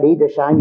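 Edersheim opening with a long ee, as EE-der-shime; third pronunciation variant. Shown as a demonstration. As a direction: say Edersheim with "ee" at the start. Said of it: "please yourself how you say it".

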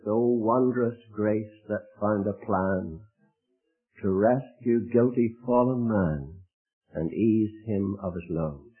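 slow, measured hymn verse; hymn recited. Acted. Preacher reciting an old hymn to the congregation, slow and reverent. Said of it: "it goes something like this".

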